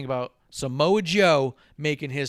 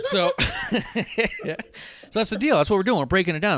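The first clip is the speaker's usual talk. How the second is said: excited restart; 7 semitones higher, 5 dB louder than usual. Real, not acted. Excited back to the story.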